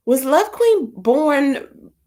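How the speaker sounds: slow, drawn-out, knowing question; a slow, mock-innocent tease; sly teasing. Real, not acted. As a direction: drag it out like a cheeky dig. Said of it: "I'm just asking".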